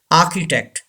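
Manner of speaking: architect as "AH-ki-tect"; silent R. Shown as a demonstration. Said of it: "R is silent".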